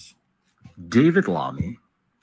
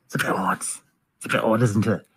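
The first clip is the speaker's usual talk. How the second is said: sly whisper; 3 semitones lower, 3 dB quieter than usual. Real, not acted. Sly aside about the arrest.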